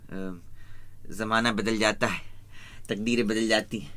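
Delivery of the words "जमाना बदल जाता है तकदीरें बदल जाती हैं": filmy dialogue delivery. Retold or imitated. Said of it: "वो बड़ा famous dialogue".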